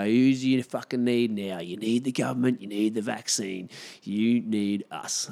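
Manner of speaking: mock taunting government.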